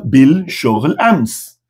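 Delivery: "bil... shoghl... ams", very slow with gaps; word-by-word demo. Shown as a demonstration. Teacher builds the Arabic answer for learners, word by word. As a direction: give "bil shoghl ams" slowly, one word at a time.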